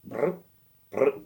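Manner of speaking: put-on short rolled brr of an old phone; imitated phone noise. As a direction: trill a quick phone sound effect by mouth.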